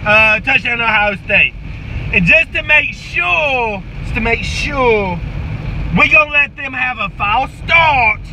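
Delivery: lightly voiced football coach firing up the team; halftime pep speech. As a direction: coach hyping up his players at halftime. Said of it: "Here it goes".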